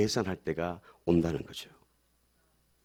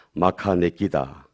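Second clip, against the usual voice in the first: slow, lower Gyeongsang dialect saying; 5 semitones lower, much slower than usual. Shown as a demonstration. Pastor has congregation repeat a local saying, Gyeongsang dialect. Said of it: "경상도 버전으로 뭐라고요?".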